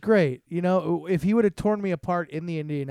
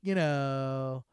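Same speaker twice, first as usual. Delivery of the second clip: put-on Valley girl; much slower than usual. Shown as a demonstration. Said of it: "I started talking like a Valley girl".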